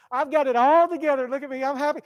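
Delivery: mock social media boast. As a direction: show off a fake happy life. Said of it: "They've got to present".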